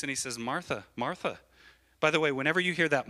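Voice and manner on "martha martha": gently imitated compassion, softer; understated tender appeal; kind, compassionate. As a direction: say the name twice with quiet kindness. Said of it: "He spoke with kindness".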